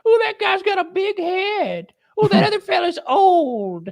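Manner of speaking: high, slow mocking voice. Mocking critics' taunts.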